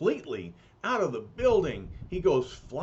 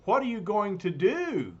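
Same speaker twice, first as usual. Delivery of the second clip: hollering landlady; 6 semitones higher, 3 dB louder than usual. Acted. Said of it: "hollers Missus Benz".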